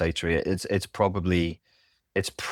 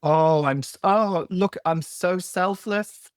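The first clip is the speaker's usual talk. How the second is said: much higher, hammed-up sing-song of a smug martyr; mock selfless martyr; 10 semitones higher than usual. Mocking the codependent who brags about giving everything, in a high hammed-up voice. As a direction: preen over your own selflessness, higher and higher.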